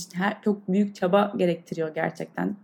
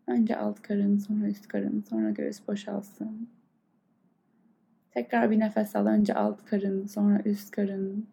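guided meditation. Acted. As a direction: calmly guide the breath. Leads a breathing meditation. (yavaş, yumuşak meditasyon sesi)

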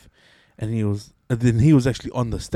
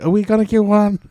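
eager; 9 semitones higher, 10 dB louder than usual. Retold or imitated. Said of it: "'cause he's been like".

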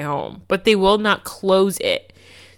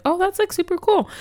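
excited reaction; 12 semitones higher than usual. Retold or imitated. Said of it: "I was like".

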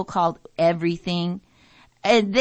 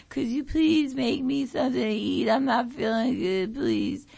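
pitiful pleading; 2 semitones higher, 4 dB quieter than usual. Pretend. Sick mom begging daughter for food.

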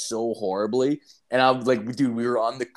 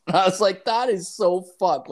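high and loud through laughter; laughing; 8 semitones higher, 4 dB louder than usual. Real, not acted. Laughing at the stolen statue story to his friend. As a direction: crack up while saying it.

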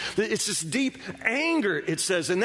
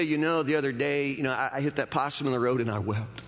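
mock casual quote; 6 semitones lower than usual. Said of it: "You don't say".

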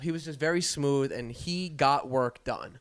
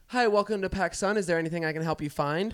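lightly imitated shop-assistant greeting; higher start, then rattled off quickly; a hint of rote customer-service cheer; store greeter; 4 semitones higher, faster than usual. Acted shop greeter welcoming a customer.

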